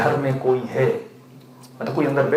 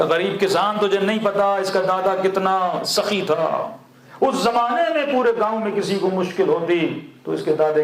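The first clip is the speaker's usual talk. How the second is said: higher, carrying voice, mock praise from afar; mildly declaimed, raised-pitch flattery; imitated calling out; 4 semitones higher than usual. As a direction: play at praising someone so a distant landlord overhears. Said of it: "بڑے فاصلے سے کہ آواز وڈیرے تک جائے".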